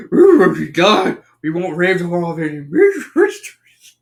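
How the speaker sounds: garbled cartoon dog talk; butchered talking-dog accent; Scooby-Doo. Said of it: "have to do the Scooby accent".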